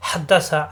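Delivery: হাদ্দাসা with হা squeezed from the throat; pressed throaty H. Shown as a demonstration. Teacher models the word, হাদ্দাসা with pressed H. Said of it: "হা চাপ দিয়ে".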